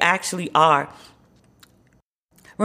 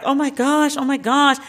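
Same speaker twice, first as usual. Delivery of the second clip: much higher, imitating a hyped crowd; mock excitement; 7 semitones higher than usual. Imitating the crowd reacting to Obama's three pointer, higher and excited. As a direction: squeal it like fans who saw the shot. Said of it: "Everyone was like".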